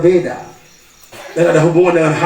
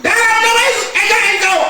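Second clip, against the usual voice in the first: deliverance prayer. Retold or imitated. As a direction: cast the spirit out in Jesus' name. Second deliverance command.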